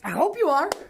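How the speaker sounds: out of breath; gasping between words. Real, not acted. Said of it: "Let me catch my breath".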